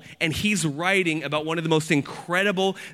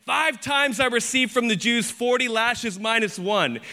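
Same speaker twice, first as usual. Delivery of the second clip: raised, emphatic declamation; impassioned scripture reading; 6 semitones higher than usual. Acted. Preacher reading Paul's sufferings to the church, raised declamation. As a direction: declaim each hardship as a credential.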